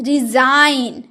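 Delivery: रिजाइन slow, ending on N with no G; stretched teacher's model of रिजाइन; silent G in resign. Shown as a demonstration. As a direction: draw out रिजाइन, leave G unsounded. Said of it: "नहीं".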